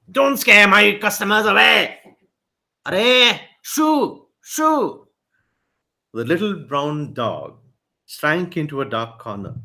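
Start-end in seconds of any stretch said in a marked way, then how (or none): 0.1-5.1 high, fussy shooing; annoyed shop owner. A narrator's reading. Coffee shop owner chasing the dog from his customers, high. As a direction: wave the dog away from customers. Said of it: "shouted the owner of the coffee shop".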